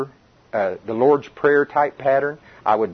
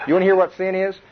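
rising preacher build-up; 7 semitones higher, faster than usual. Real, not acted. Repeated build-up to point.

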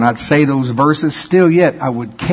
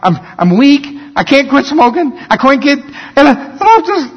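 mock self-pity; 6 semitones higher than usual. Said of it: "Jesus talked like that all the time".

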